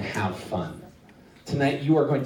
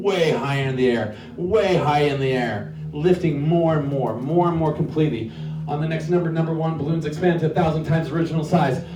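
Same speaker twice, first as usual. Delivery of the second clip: hypnotist voice. Acted. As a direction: lull them upward, drawing out each word. Hypnotist's induction on stage.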